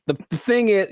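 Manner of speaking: stumbling on the opening words; a stuttered, unpractised lead-in; fumbled first try. Shown as a demonstration. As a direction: trip over "the" before "thing is". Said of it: "I could have done better".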